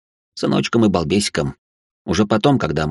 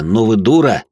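exasperated outburst; 2 semitones higher, 5 dB louder than usual. A narrator's reading. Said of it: "не выдержал Тихонов".

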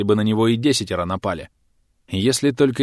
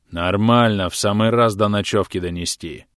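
gurgling alien. Acted. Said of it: "клокочущим голосом объявил болдырь".

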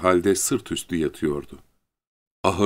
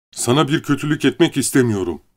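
higher-pitched, worried reassurance; anxious appeal; 7 semitones higher than usual. A narrator's reading. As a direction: plead that no harm is meant. Lenny anxiously appeals to the woman. (kaygıyla, yalvarır gibi)

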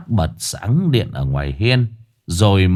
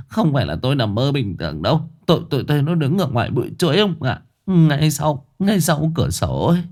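tearful; 5 semitones higher, faster than usual. Acted. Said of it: "rưng rưng nước mắt".

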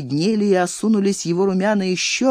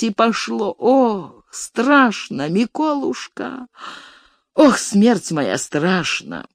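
put-on frightened old steward. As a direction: whine and argue as a fearful old steward. (причитания перепуганного старика-приказчика)

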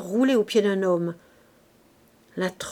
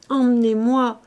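louder and higher, insistent repeated cry; 4 semitones higher, 7 dB louder than usual. Acted. Gervaise still crying to Bazouge, loud insistent plea. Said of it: "criait toujours Gervaise".

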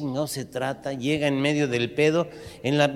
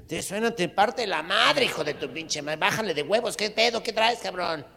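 punk voice; 5 semitones higher than usual. Acted. Punk picks the fight again.

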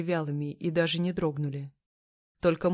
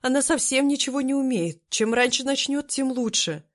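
higher, louder fussy lady's voice; justifying herself; 7 semitones higher, 5 dB louder than usual. Acted. Lady Qin excusing herself to the emperor, higher flustered voice. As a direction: hurry to excuse yourself to the emperor. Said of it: "стала оправдываться госпожа Цинь".

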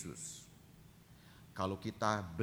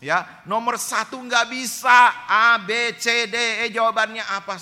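high, loud panicked student voice; a teen cramming in panic, higher and louder; panicky student; 12 semitones higher, 16 dB louder than usual. Retold or imitated. Student panics over test questions. (murid panik, suara tinggi dan keras)

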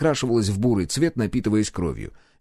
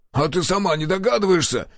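crooked smirk; 8 semitones higher than usual. Acted. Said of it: "криво ухмыльнулся Каша".

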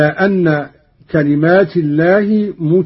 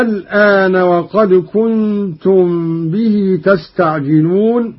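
Quran recitation. Acted. Teacher reciting the verse for students, measured chant.

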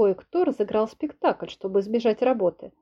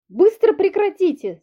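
slow, much higher, louder shout; 10 semitones higher, 5 dB louder than usual. Acted. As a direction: yell at the brawling men to stop. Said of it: "закричала я".

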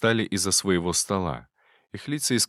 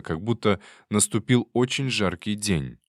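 usual speaking voice

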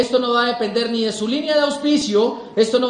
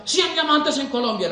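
convention speaker; 3 semitones higher than usual. Retold or imitated. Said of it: "un orador y decía".

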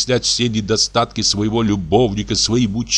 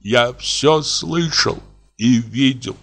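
dying man's tone; 6 semitones higher than usual. A narrator's reading. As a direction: beg as if dying. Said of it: "тоном умирающего". (тоном умирающего, умоляя)

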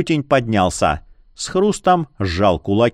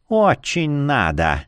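capricious; slower than usual. Acted. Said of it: "Люсенька капризно надула губы".

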